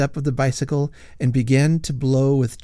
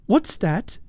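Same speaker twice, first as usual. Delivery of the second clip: acid demand; 9 semitones higher than usual. A narrator's reading. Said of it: "acidly demanded".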